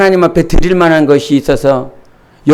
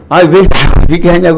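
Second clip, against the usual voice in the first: mildly heated retort, retold; mock indignant complaint; retold angry outburst; 4 semitones higher, 5 dB louder than usual. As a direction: replay a flare of irritation. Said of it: "제가 막 벌 화를 냈습니다".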